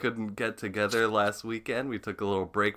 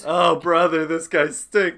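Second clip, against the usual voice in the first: cartoon catchphrase voice; 4 semitones higher, 6 dB louder than usual.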